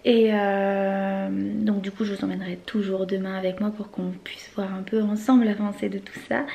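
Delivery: hushed voice, partly whispered; hushed late-night voice. Real, not acted. Late evening, children asleep.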